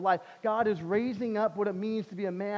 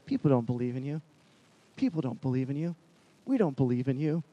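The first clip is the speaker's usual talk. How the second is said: belittling doubt; 6 semitones lower than usual. Retold or imitated. Critical voice in Moses' head.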